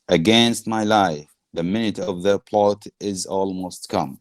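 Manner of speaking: slow, deliberate recital of verse; measured play reading. Acted. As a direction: read the aside out slowly for students. Reads Prospero's aside from play.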